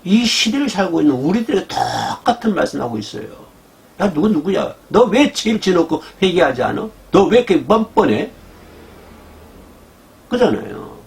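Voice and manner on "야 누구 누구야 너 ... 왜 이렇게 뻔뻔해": mild mock outrage; God scolding. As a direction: rebuke someone brazen. God rebuking shameless sinners.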